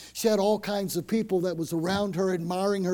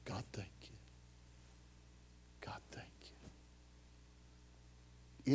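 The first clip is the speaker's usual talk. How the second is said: soft, breathless whisper of thanks; hushed, intimate thank you to God; whispered prayer; 7 semitones lower, 19 dB quieter than usual. Shown as a demonstration.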